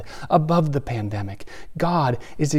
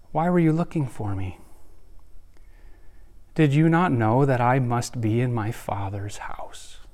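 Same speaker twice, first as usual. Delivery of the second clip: hushed Jesus quote; 4 semitones lower, 5 dB quieter than usual. Acted. Young Jesus quoted, first reading.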